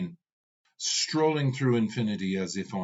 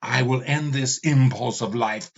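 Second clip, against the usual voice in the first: mad, insane; 3 semitones higher than usual. Acted. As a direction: vow it like a madman. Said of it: "Ravana sounded mad, insane".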